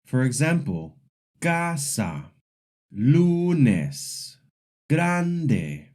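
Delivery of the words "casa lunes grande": CAsa, LUnes, GRANde, first syllable high and strong; casa, lunes, grande with second-to-last syllable stressed; penultimate stress. Shown as a demonstration. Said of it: "the stress usually falls on the second to last syllable".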